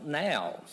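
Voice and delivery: now said "nowl", ending in L; rhymes with foul. Shown as a demonstration. Speaker offers a second nonsense reading, now rhyming with foul.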